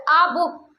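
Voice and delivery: article आ in आ बुक said as a long open aa, not ae; teacher modelling आ बुक slowly. Shown as a demonstration. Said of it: "तब यहाँ पे आ बोलेंगे, not ए".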